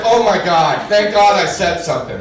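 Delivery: loud, exclaimed comic relief; acted relief. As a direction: burst out as if narrowly saved. Acted relief after misunderstanding.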